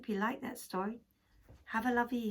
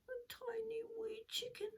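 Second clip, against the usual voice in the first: hushed bedtime whisper; whispered storytelling; 10 semitones higher, 9 dB quieter than usual. A narrator's reading. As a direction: whisper it softly like a secret.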